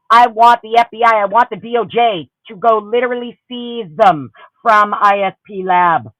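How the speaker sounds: usual speaking voice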